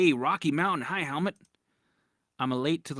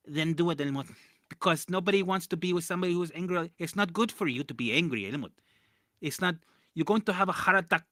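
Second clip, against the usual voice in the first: mock mom; 4 semitones higher than usual. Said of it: "mom voiced in argument".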